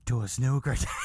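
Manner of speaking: lightly voiced low newsreader; a hint of deadpan news voice; newsman's punchline. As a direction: deliver it as a solemn bulletin's last detail. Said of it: "I swear he went like this".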